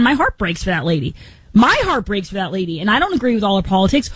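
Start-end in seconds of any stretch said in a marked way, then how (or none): 0.0-1.1 heartfelt. Real, not acted. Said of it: "getting all verklempt here". 1.5-2.8 saying it again, more feeling on My; heartfelt, repeated. Real, not acted. Telling Taylor about the crying mask wearer, sincerely moved. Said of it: "getting all verklempt here".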